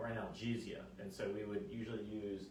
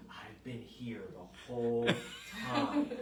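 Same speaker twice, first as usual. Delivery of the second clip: insistent patient; 4 dB louder, slower than usual. Retold or imitated. Patient tells doctor she stayed put, insistent denial. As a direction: mimic adamant denial, stretching it out.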